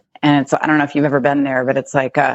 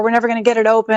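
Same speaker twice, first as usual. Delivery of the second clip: retold panic, raised pitch; imitated freaking out; 5 semitones higher, much faster than usual. Wife retells husband banging on the car door, mildly panicked. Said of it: "He's, like, freaking out".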